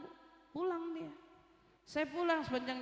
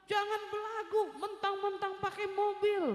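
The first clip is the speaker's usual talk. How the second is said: higher-pitched mock scolding; raging man imitated; 6 semitones higher than usual. Angry man scolding a driver, mock rage. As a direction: imitate an irate man telling someone off. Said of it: "Ngamuk-ngamuk dia".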